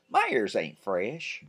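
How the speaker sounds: put-on slow, defiant little boy; light kid voice, mock defiant; kid protesting. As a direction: drag it out like a stubborn kid. Ben protesting.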